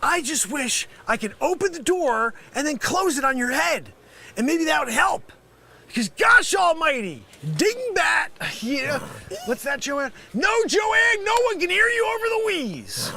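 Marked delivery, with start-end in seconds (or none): 0.0-8.3 rant. Acted. Scammer berates caller. 10.3-13.1 shouting at coworker Joanne over the office noise; yelling across office. Acted.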